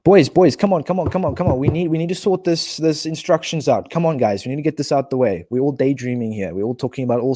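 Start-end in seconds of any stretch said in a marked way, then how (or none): 0.0-4.4 raised, insistent rallying call; urging. Real, not acted. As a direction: round up the distracted lads, higher and pressing. Rallying distracted viewers back on task.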